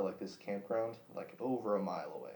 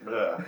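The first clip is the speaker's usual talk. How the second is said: retching noise; 8 dB louder than usual. Retold or imitated. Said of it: "I was like".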